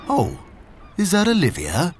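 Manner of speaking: a hint of a gentle old dog, pleased; old dog recognising a friend; old Labrador greeting Olivia; lightly voiced old dog. Benji, old dog character.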